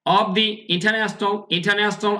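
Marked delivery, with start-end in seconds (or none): 1.5-2.1 "ইন্টারন্যাশনাল" as in-ta-nes-nal, R unsounded; silent R pronunciation. Shown as a demonstration. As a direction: model "ইন্টারন্যাশনাল" dropping the R. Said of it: "আর এর উচ্চারণ হচ্ছে না".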